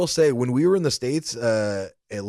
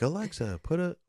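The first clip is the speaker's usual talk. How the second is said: hushed command; 7 semitones higher, 6 dB quieter than usual. Retold or imitated. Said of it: "I don't want her to go off".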